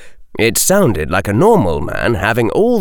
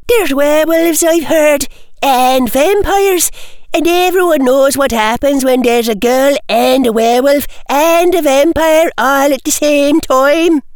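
put-on prissy young girl; 4 dB louder than usual. A narrator's reading. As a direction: whine like a spoiled schoolgirl. Girl student protesting.

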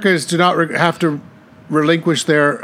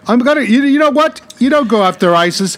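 Trump impression. Mocking Trump's campaign talk.

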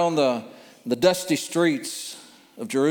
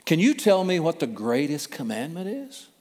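respectful tones; 3 semitones higher than usual. Acted. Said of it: "in respectful tones".

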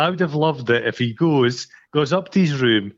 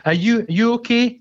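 concerned woman; 8 semitones higher than usual. Retold or imitated. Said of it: "And she goes".

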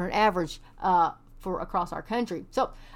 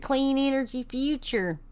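fake Texas accent; 4 semitones higher than usual. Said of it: "I did that in my best fake Texas accent ever".

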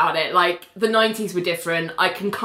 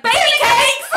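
mock call; 5 dB louder than usual. Ali voiced calling out.

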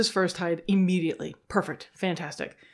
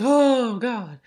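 sudden "Oh" jumping higher and louder, then dropping; stressed gasp; 4 semitones higher, 5 dB louder than usual. Retold or imitated. Handler panicking before her turn, sudden stressed exclamation. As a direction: blurt it out in a panic.

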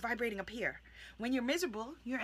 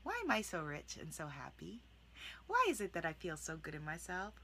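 soft questioning; 5 semitones lower, 8 dB quieter than usual. Shown as a demonstration. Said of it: "you say".

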